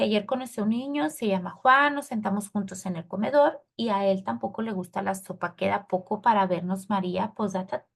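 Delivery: unpunctuated, continuous reading aloud; run-on reading. Shown as a demonstration. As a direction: read straight through without punctuation. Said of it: "si yo lo leo tal cual, seguido, sin un sentido".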